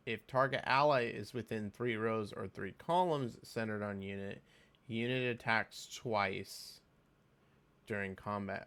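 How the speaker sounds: measured reading, slowing towards the end. Real, not acted. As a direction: read it through carefully, pausing before the last phrase. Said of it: "let me read this slower".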